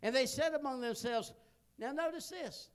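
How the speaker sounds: scripture reading. Acted. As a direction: read the verse out with weight. Reads scripture aloud.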